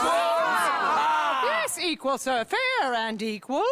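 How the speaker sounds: firm reply. Acted. Answering a heckler at the rally.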